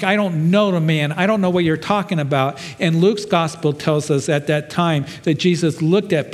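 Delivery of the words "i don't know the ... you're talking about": raised, agitated denial, higher; heated denial. Acted. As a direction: deny it hotly, cornered. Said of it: "He's cursing and swearing".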